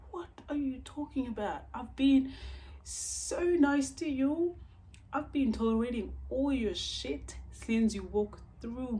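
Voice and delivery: high, loud, exasperated protest; retold indignation at full voice; indignant outburst. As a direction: act out an outraged comeback, stretching key words. Acts out quarrel with date.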